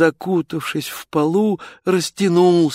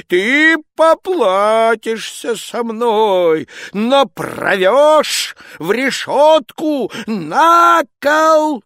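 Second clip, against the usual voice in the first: higher, louder slow furious shout; tsar in full rage; 11 semitones higher, 7 dB louder, much slower than usual. Acted. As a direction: roar the final threat. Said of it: "закричал он".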